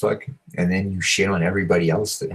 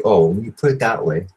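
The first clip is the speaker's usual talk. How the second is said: louder mock-impressed comeback; sarcastic; 3 semitones higher, 5 dB louder than usual. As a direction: sarcastically give in to the challenge. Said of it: "You know, like, sarcastically".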